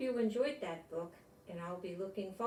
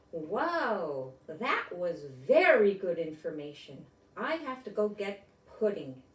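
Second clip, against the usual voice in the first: mild yelp; 7 dB louder, slower than usual. Acted. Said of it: "yelped Jitterbug".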